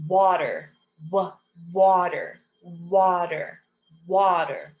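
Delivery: "water" said apart and carefully, with the W also sounded alone; modelled W. Shown as a demonstration. Teacher drilling the W sound, careful repeated "water". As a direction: lean into the "w" opening "water". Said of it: "W makes the W sound".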